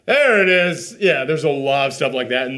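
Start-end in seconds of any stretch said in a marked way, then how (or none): 0.1-1.0 spring the scare; a mock jump-scare reveal; jump-scare payoff. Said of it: "it's like".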